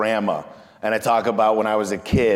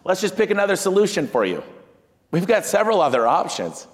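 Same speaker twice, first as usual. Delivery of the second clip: bright, higher customer-service voice, eager to please; cheerful salesman to client; 9 semitones higher than usual. Retold or imitated. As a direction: sell it with an upbeat, accommodating lilt. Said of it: "I say".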